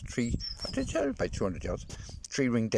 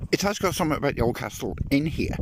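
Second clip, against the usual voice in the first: accidentally posh, a little higher; posh accent; 4 semitones higher than usual. Real, not acted. Vlogger reading about the old castle, accidentally posh accent. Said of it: "Oh, did I sound posh then?".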